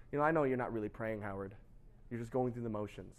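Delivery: low, soft aside; quietly see through the pretence; understated knowing God. Acted. God calls out the preacher's prayer, quietly knowing.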